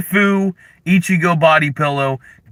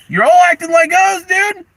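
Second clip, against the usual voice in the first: mock wail; 4 dB louder than usual. Wailing rant at chat.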